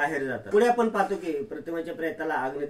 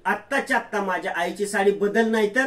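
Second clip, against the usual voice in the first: higher and louder, rising into a threat; angry order; 4 semitones higher, 4 dB louder than usual. Acted. Daughter orders Sayli out of her mother's saree, angry threat. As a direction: snap the order, louder at the end.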